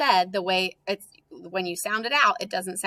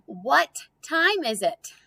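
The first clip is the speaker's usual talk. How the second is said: slow reading; 5 semitones higher, slower than usual. Shown as a demonstration. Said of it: "Next one".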